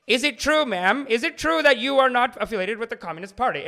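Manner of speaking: loud, high mock interrogation; accusing interrogator. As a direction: hammer out the accusation as a hammed-up senator. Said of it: "And he's like".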